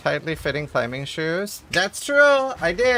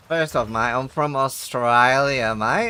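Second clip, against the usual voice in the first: put-on slow, louder Australian accent with mate; 3 dB louder, slower than usual. Asked for New Zealand, answers in an Australian accent. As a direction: lay on the Australian twang, drawn out. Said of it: "give us your best New Zealand accent".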